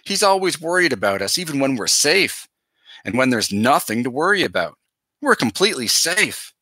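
leaning on always and completely to calm her; emphatic reassurance. A narrator's reading. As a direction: reassure a crying sister, pressing key words. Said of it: "I emphasized the words I wanted her to hear".

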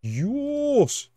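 very high, loud, stretched cry of amazement; amazed exclamation. Real, not acted. Gamer amazed at what turned up, high astonished cry. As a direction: squeal it out in disbelief, high and long.

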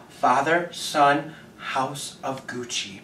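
slow, spaced-out reciting of a trailer line; solemn quoted line. Retold or imitated. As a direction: pause after each name, softening at the end. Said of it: "This woman just said".

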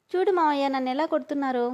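high, loud tattling to uncle; girl tattles to her uncle in a high wail; whiny complaint. Acted. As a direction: play the victim loudly.

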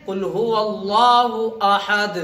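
slow recitation with अहद ending on a silent, unvoweled द; stopping pause on last letter. Shown as a demonstration. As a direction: recite slowly and clip अहद to a dead stop on द. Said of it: "हमें इस तरह रुकना है कि last वाले word के ऊपर".

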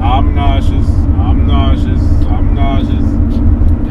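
slow, drawn-out cartoon whine; cartoon quote. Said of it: "It's on the cartoon".

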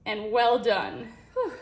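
panting after the stairs; breathless, catching breath. Real, not acted. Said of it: "I'm out of breath from going upstairs".

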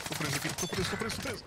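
rising panic, stuck and frantic; frantic repeated cry; panicked. Real, not acted.

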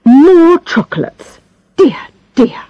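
high mock dismay; tut-tut at the chocolates; tutting doctor.

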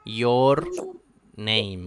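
"your name" with a hard, Spanish-read "your"; students' mispronunciation. Retold or imitated. Teacher imitating the students' error, mispronounced Y. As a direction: imitate a learner stressing "your", R sounded, then "name". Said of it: "siempre lo escucho a mis alumnos que dicen".

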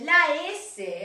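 La S said with a little lift; teacher highlighting the final S; pointing out the S. Shown as a demonstration. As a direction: stress the sound S. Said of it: "haciendo sonar la teacher".

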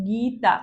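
"গীতা" with a long first গী, then তা; syllable by syllable. Shown as a demonstration. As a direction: stretch out the first beat of "গীতা". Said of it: "গীতা নামটা উচ্চারণ করো". ("গীতা" টেনে, দুই ঝোঁকে)

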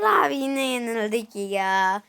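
slow tearful complaint; whiny crying. Real, not acted. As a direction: moan it out near tears. Lost again.

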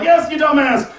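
high exasperated cat voice; a starving cat losing patience; cat yelling. Retold or imitated.

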